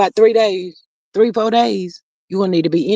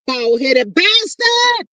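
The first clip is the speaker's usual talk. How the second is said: angry outburst; 6 semitones higher, much slower than usual. Real, not acted. Outburst at ex's post.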